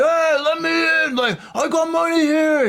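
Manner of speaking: light imitation of shouting through the glass; imitating yelling. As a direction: call out to be let in, retold. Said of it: "he was there yelling".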